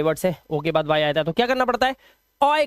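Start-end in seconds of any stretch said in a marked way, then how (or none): 2.4-2.7 put-on ऑय pronounced like the end of "boy"; "oy" sound. Shown as a demonstration. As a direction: say ऑय as one glide, "oy". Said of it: "का उच्चारण करना पड़ेगा".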